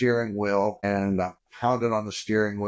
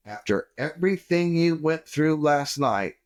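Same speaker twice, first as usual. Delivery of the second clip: imitated disbelieving reproach, higher pitched; mock scolding; 6 semitones higher than usual. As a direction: scold him like an appalled girlfriend. Girl scolds him for drinking.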